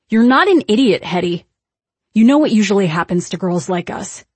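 loud, cutting scold; sharp rebuke. Acted. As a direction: snap it at her. Heated argument with friend.

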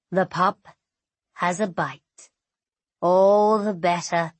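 dark smile in the voice; pleased, like a predator at play; amused djinn voice. Acted. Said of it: "I hear the smile in his voice".

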